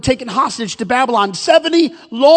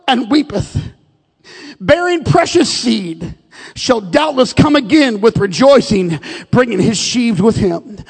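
scripture reading. Acted. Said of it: "here it is in the King James".

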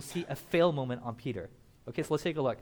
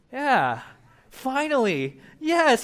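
high, loud victorious yes; triumphant cheer; 9 semitones higher, 9 dB louder, much slower than usual. Acted. Peter celebrating his right answer, high and loud. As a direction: celebrate finally getting it right.

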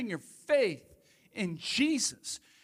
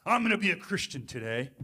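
grumpy vow; 3 semitones lower, faster than usual. Pretend. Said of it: "Hopefully you say it in a nicer voice than that".

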